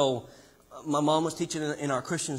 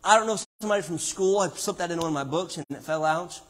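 normal talking voice

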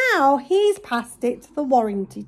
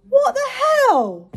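exasperated laugh; 9 semitones higher, slower than usual. Real, not acted. Exasperated outburst at the shop.

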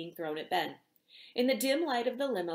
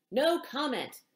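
louder, higher snarl; snarled reply; 5 semitones higher, 4 dB louder, slower than usual. A narrator's reading. Star snaps at the paparazzi, a loud snarl. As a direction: bark it to shut them out. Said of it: "snarled the reply".

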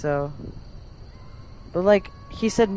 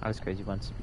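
low meme voice; 11 semitones lower, 14 dB quieter than usual. Pretend. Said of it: "Crazy? meme quote".

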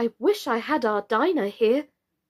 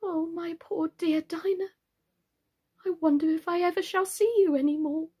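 put-on high, plaintive girl's voice; melancholy; 8 semitones higher than usual. A narrator's reading. Alice alone, missing her cat Dinah, melancholy. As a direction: pine aloud, drawing out the words sadly. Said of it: "said to herself in a melancholy tone".

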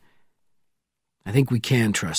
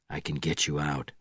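softly, much softer than around it; quiet; 6 semitones lower, 8 dB quieter than usual. A narrator's reading. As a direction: say it low and quiet to the prisoner. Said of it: "he said quietly".

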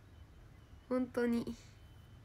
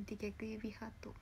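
whispering; 12 dB quieter than usual. Real, not acted. Whispered aside while posing.

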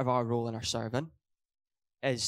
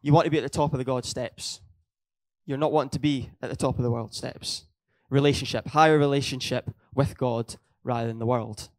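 louder, driving preaching emphasis; emphatic preaching; 7 dB louder than usual. Real, not acted. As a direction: press every point home with force. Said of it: "emphasize it again".

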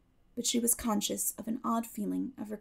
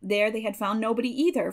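plain reading voice

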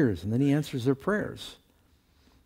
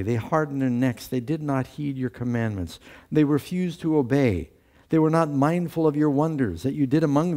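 scripture reading; 3 semitones higher than usual. Acted. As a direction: proclaim the verses, pitched up. Reads Nehemiah aloud.

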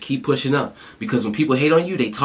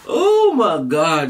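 amazed; 3 semitones higher, 4 dB louder, much slower than usual. Real, not acted. Reacting to hard lyric.

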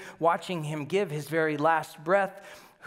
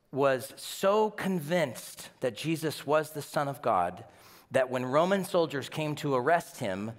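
ordinary delivery

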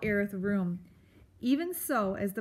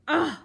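scornful ugh; 6 semitones higher, 7 dB louder than usual. A narrator's reading. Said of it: "Aerith said scornfully".

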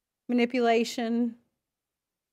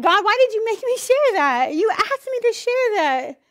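mad at God; 9 semitones higher, 5 dB louder than usual. Retold or imitated. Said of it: "'cause I'm like".

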